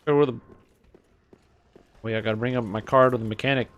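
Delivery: hammed-up stereotype Minnesotan; Minnesotan accent. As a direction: play a Minnesotan local with rounded "oh yah". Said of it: "Is that a Minnesota thing?".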